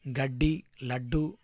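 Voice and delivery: each word said apart, clearly, for writing down; dictation voice. Shown as a demonstration. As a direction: dictate it to the class. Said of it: "ఉక్తలేఖనంగా ఇవ్వాలి".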